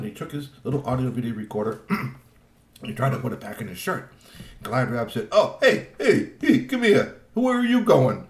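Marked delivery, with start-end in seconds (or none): 5.3-8.3 much higher and louder demanding call; loud troll voice. Acted. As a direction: bark it out like a pushy troll. Troll Glad Rab calls GP back.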